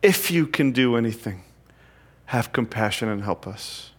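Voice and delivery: soft, fading, half-hearted "If you can do anything"; half-hearted plea. Acted. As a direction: ask without really hoping, trailing off. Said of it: "half-hearted faith".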